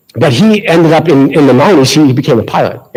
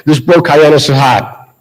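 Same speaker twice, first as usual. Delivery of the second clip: put-on Boston accent; slower than usual. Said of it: "It's my turn to say".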